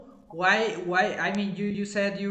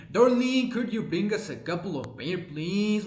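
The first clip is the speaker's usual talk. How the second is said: exaggerated Southern accent; 2 semitones higher than usual. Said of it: "his accent was really exaggerated".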